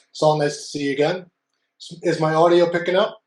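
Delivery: boxy distant audio; muffled, like in a closet. Real, not acted. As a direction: sound as if in a closet. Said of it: "you sound like you're in a closet".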